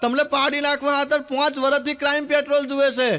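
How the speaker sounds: put-on loud call to the old woman. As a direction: shout across to granny. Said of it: "મેં તો ડોશીને બૂમ પાડ્યો". (ડોશીને મોટેથી બૂમ)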